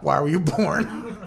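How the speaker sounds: slow contemptuous sneer; disdainful look. Retold or imitated. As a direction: drag out the disgusted question. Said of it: "I get that look a lot".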